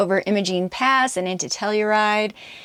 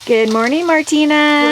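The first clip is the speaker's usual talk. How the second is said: cheerful call; 8 semitones higher, 9 dB louder than usual. Real, not acted. Calling a morning greeting.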